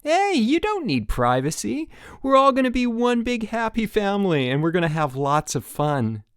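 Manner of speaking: high, loud eager counselor; bright bouncy counselor voice; peppy counselor. Acted. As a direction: pump up the new camper.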